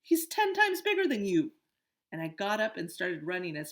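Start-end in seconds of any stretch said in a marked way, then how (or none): 0.0-1.6 loud, high mock urgency; imitating himself. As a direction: replay the panic laughing. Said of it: "I was like".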